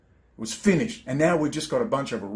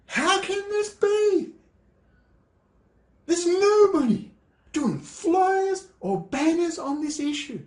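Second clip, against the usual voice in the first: much higher, slow exasperated cry; 12 semitones higher, slower than usual. Real, not acted. Despairing to viewers about missing activism, high and slow. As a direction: plead in disbelief, slowly and high. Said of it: "I get so angry".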